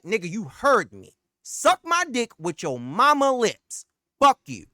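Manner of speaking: telling him off for good; hanging up in a rage on the rep; retold furious cuss-out. Cussing out the rep.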